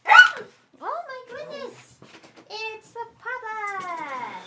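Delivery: high, slow excited squeal; delighted greeting at the door. Real, not acted. Excited at husband arriving.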